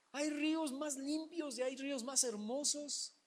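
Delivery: hammed-up wounded pride over a dirty river; indignant Naaman. Naaman scorning the Jordan to the congregation, mock indignation. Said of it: "Naaman complains about the prophet".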